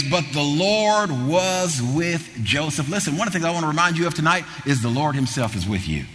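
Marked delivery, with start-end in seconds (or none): 0.0-2.9 slow savoring. Acted. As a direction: let the phrase sink in slowly. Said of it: "this phrase".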